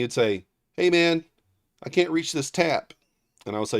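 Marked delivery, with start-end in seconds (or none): 0.7-2.9 whiny friend. Retold or imitated. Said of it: "He would call me".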